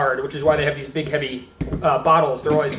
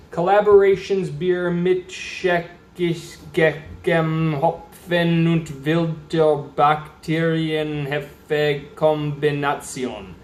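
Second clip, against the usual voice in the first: German label read; slower than usual. Acted. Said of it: "It says".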